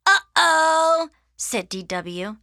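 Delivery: high, loud, drawn-out singsong; little sister's gleeful warning; teasing uh-oh. Acted. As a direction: taunt a sibling in trouble. Little sister taunts Arthur.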